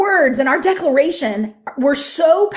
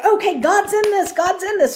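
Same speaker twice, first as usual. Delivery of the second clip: higher, eager declaration with growing conviction; fired up; 9 semitones higher than usual. Retold or imitated. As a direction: say it like faith just caught fire. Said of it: "I got fired up".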